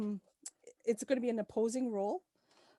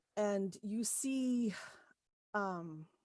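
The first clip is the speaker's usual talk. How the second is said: ordinary delivery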